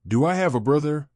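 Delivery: inquiring child's question, lightly voiced; a mildly curious question. A narrator's reading. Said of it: "Alandra asked inquiringly".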